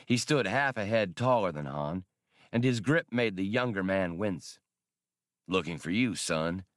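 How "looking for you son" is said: put-on lightly gruff older man voice; a hint of a rough old soldier; gravelly old man. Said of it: "in the gravelly voice Han recalled so well".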